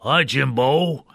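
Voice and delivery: imitating Rolf greeting Jim. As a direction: drawl it out like the dog puppet. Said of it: "I could do that voice".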